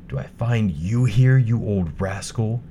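a huntsman catching the rascal. Acted. Huntsman finds wolf.

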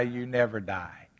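hushed whisper of the promise; preacher whispering to the congregation that believers never die. Acted. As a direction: drop to a whisper for the key truth. Whispered punchline of sermon point.

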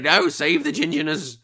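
mock desperate plea. Begging the film makers to save a ginger, mock desperate plea. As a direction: plead it in mock alarm.

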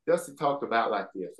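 low-key offstage wrestler voice; Dusty Rhodes. Acted. Showing how the wrestler talked in person, lightly imitated. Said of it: "when you talk to Dusty in person".

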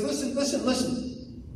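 soft, breathy calming of the elder son; a near-whispered plea to listen; hushed father. Retold or imitated. Father quietly calming his upset elder son.

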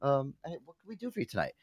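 mock radio host greeting; hammed-up call-in host.

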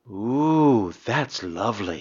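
imitating a British woman savouring candy; calming British accent. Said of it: "she'd be like".

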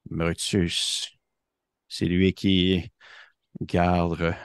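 a hint of a nervous duck. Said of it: "il fait comme".

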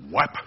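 spoken smack of a plank; mock impact noise; imitated whack. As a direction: fire it out as one sudden blow. Imitates the blow of the two-by-four.

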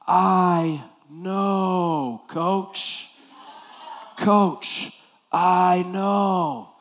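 put-on high, meek kid voice; lightly voiced player, guilty and pleading; sheepish teen player. Player apologizing to his coach, high and meek.

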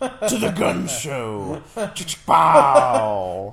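high, loud playful yell; hammed-up shout. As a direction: belt it out like a show-off. Joking flex shout to Loki.

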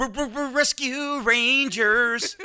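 high, slow, laughing stammer; stumbling through it while laughing; laughing stumble. Real, not acted.

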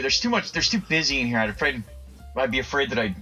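ordinary talk, nothing marked

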